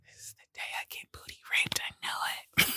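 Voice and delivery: hushed, dread-filled whisper; voiceless scared whisper; fearful whisper. Retold or imitated. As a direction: whisper it like a private dread at night. Inner thought of dread at 3am.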